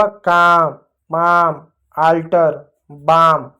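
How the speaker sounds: काम, माम, अल्टर, बाम each opening on a long आ vowel; long आ sound. Shown as a demonstration. Teacher recapping the rule, long आ in काम, माम, अल्टर, बाम. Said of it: "तो भी आ पढ़ते हैं".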